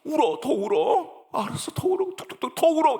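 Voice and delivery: put-on high, coaxing voice urging the child to cry on. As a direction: gently egg the child on to cry it out. Pastor comforting crying child. (아이에게 더 울라고 다독이는 높은 목소리)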